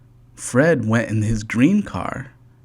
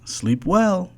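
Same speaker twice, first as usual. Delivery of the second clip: Fred's voice; 6 semitones higher than usual. A narrator's reading. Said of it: "said Fred".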